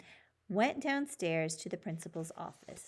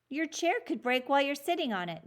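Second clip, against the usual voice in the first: quick; 7 semitones higher, 4 dB louder, faster than usual. Acted. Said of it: "Julio went on quickly".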